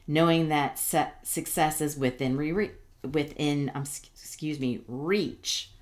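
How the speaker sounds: stumbling over the words; stuttering. Real, not acted. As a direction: catch and restart words. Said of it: "I don't know why I'm stuttering".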